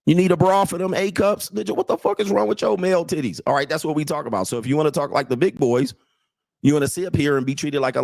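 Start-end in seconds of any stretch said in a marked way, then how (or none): 0.0-3.4 higher, teasing guy voice; playful roast among friends; mocking bros. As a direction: rib your buddy like the boys do. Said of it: "They be like".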